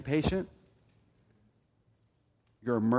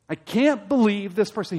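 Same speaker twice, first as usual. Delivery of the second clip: impatient driver; 6 semitones higher, 5 dB louder than usual. Retold or imitated. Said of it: "Here's me".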